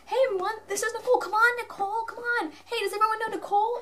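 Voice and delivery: high, loud, rapid heckling shout; imitated yelling. Security guard embarrassing a fan, high mock yelling. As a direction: broadcast it to everyone, fast and high. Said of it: "like, yelling".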